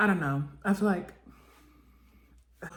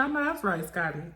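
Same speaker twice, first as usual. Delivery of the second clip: cheering Scotty; 2 semitones higher than usual. Real, not acted. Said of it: "I said".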